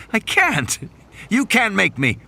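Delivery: high, pleading panic; frightened refusal. Acted. Scared Gennaro refusing Muldoon at the hole, high pleading. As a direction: beg your way out of it.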